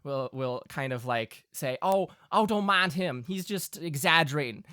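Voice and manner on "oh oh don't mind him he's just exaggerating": lightly voiced country ma; dismissive Southern mother. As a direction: gently play down your husband's tale. Game master plays Winsler's mother.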